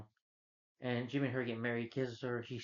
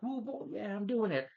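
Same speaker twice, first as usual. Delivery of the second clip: mock whooping; 9 semitones higher than usual. Reviewer acting out the Crow's return, mock excited whoop. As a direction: imitate an over-excited whooper. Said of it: "It was like this".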